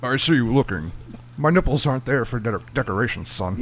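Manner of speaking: stern father voice, lightly put on; James Earl Jones impression. Podcast friend tries a deep actor voice, sounding like a stern father. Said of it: "In James Earl Jones".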